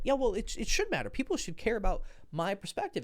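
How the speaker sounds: high-pitched mock whine; hammed-up victim whine; whiny victim. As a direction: play the self-pitying victim. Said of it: "kinda complaining and crying the victim".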